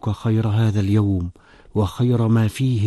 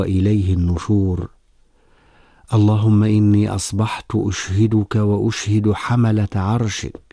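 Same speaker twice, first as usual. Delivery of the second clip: measured, formal Arabic prayer recitation; devotional supplication. Real, not acted. Presenter reciting morning prayers for radio listeners, solemn supplication.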